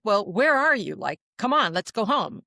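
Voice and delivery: impatient call to a hiding brother; mock-annoyed come on; mildly mad. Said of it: "and now I'm mad".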